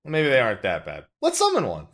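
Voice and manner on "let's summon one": high gleeful shout; excited shout. Pretend. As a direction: blurt it out eagerly. Joking flip-flop, shouted.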